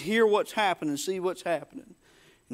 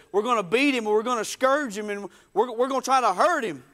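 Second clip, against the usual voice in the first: raised, insistent mild threat; threatening; 4 semitones higher than usual. Retold or imitated. Tormentors lashing Jesus, threatening. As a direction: press each threat a bit harder.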